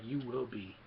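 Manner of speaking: a hint of the ominous puppet master; Yoda. Yoda warning a fearless Luke, lightly imitated. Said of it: "Yoda's like".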